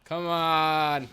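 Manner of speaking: loud yell at the enemies; angry shout. Real, not acted. Gamer yelling at enemies, loud shout. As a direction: bellow it at the attackers.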